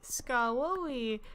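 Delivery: put-on drawn-out childish "Skarloey"; little kid voice. Child answering grandpa on tape, imitated little kid voice. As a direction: say "Skarloey" like a small child, stretched out. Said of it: "I just sound like this little kid".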